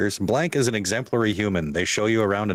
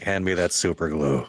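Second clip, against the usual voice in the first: mock deadpan monotone; 3 semitones lower than usual. Playing the character asking for glue, monotone. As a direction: keep it on one even note. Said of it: "very monotone voice being like".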